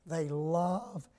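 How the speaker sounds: hushed reassurance; soft drop. Acted. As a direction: pull back and confide. Sudden drop after loud build.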